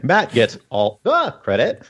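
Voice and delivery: slow, even robot voice. Pretend. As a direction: speak it like a slow machine. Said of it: "in a robot voice".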